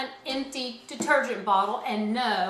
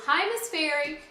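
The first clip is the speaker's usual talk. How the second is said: higher-pitched pupil saying hi; pupil's greeting; 5 semitones higher than usual. Retold or imitated. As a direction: imitate a child greeting the teacher. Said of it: "Some of you go".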